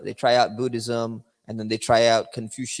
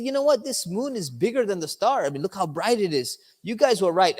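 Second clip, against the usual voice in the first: higher, hammed-up mock amazement at the moon; pretend excitement; 6 semitones higher than usual. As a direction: fake wonder, playing along with the crowd. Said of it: "Now he's gonna pretend".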